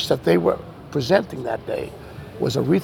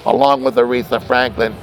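announcer voice; 5 semitones higher than usual. Retold or imitated. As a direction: build up the new star's name for the crowd. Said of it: "they're going".

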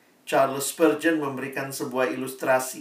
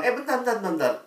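king calling back; 9 semitones higher, faster than usual. Acted. King calls farmer back.

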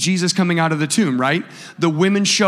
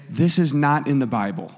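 deliberate, lower-pitched stress on "not in the Bible"; emphatic statement; 4 semitones lower than usual. Real, not acted. Preacher pausing his story to warn the church, emphatic. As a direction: press home "not in the Bible" firmly, pitched down. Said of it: "The reason I'm emphasizing that".

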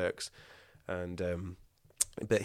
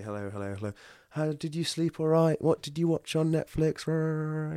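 bright, higher chirpy hellos; cheery greeting; 7 semitones higher than usual. Retold or imitated. Greeting fellow patients over coffee, lightly chirpy. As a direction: greet the group like a chipper regular.

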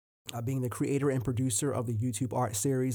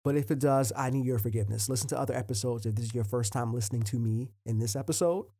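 talking with a retainer in; slightly wet, lispy retainer speech; wearing a retainer. Real, not acted. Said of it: "if I sound extra juicy".

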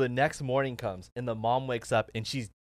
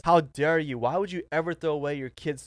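higher and louder, a mock-furious How dare you; retold angry outburst; 4 semitones higher, 4 dB louder than usual. Son confronting the fake mom after dumping water, angry outburst. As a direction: fling it at her like an accusation.

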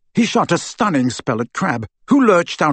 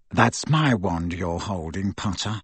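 cool menace; 6 semitones lower, 6 dB quieter than usual. A narrator's reading. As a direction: trail down softly on the name. Malfoy menaces Harry at wandpoint.

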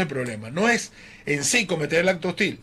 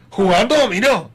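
accusing wife; 3 semitones higher, 6 dB louder than usual. Retold or imitated. Wife interrogating him.

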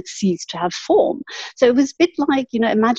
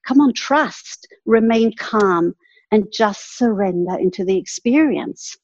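calm parent. Retold or imitated. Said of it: "coaching me like a calm parent".

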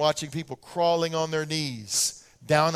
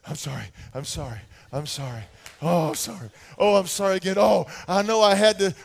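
mock groveling apologies; 3 dB louder than usual. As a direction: babble the apologies anxiously. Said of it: "chasing me around going".

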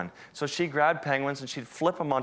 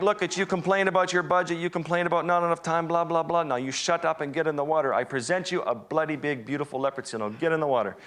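imitating the bossy guide; 4 semitones higher than usual. Guide ordering the scared photographer into the water, mock stern and high. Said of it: "And he's like".

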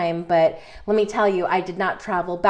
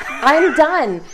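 declaring done; 7 semitones higher, 5 dB louder than usual. Retold or imitated. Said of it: "I was like".

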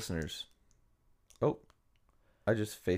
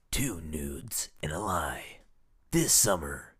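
slow, breathy movie-trailer whisper; 2 semitones lower, slower than usual. Pretend. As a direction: whisper it like a film teaser.

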